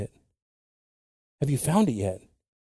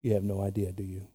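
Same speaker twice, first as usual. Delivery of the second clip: lightly voiced God; 4 dB quieter than usual. God answering the crying believer, quiet and dry. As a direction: answer dryly, dropping quiet.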